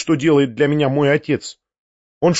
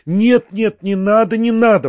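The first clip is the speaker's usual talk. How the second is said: higher-pitched, urgent protest; crying out; 6 semitones higher than usual. A narrator's reading. Young woman refusing the narrator's meeting, crying out in protest. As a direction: cut him off with a high, mild cry. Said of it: "вскричала Настенька".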